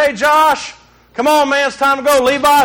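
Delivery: put-on calling the kids. Father calling kids to leave.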